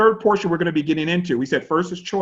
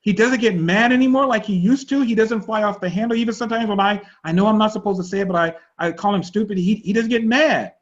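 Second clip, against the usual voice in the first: imitating the wife; 5 semitones higher than usual. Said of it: "she goes".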